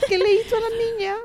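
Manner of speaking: high, fast, laughing question; excited laughing gasp. Real, not acted. Friend hooked on royal gossip, laughing high-pitched question. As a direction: squeal it out in delight.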